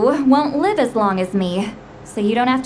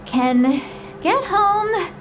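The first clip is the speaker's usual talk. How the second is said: put-on very slow, half-asleep drunk mumble; drowsy drunk mumble; much slower than usual. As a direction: slur it out as you nod off. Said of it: "talking in her sleep".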